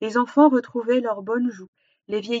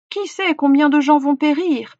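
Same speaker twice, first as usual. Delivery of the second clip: higher, louder alarmed bird, lightly voiced; chirping birds; 5 semitones higher, 6 dB louder than usual. A narrator's reading. Birds warning of coming deaths, lightly chirped alarm. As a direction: lift the voice like a worried little bird. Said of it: "pépiaient les oiseaux".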